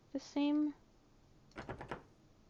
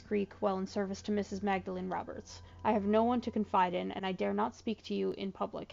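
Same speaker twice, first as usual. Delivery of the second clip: letter reading. Acted. Reads the in-game letter aloud.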